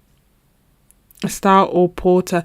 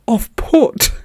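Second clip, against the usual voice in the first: whispered disbelief; 4 semitones higher than usual. Retold or imitated. Bartender's shocked ending.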